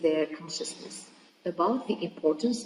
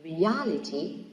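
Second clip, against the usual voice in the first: "Reality" slowly, stressing AL; teacher's stress demo of "Reality"; stress on second syllable; slower than usual. Shown as a demonstration. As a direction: draw out "Reality" as re-AL-ity. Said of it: "in the second syllable".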